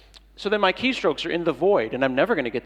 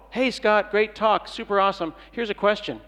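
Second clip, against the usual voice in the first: higher, brighter mock-gushing fan; higher mock-eager fan reading out his email; 5 semitones higher than usual. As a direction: parody an eager stranger's email, pitched up. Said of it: "Some internet rando".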